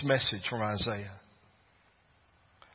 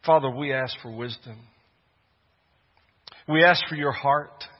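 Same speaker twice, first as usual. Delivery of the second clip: fervent prayer; 5 semitones higher, 7 dB louder than usual. Real, not acted. Prayer building in fervor.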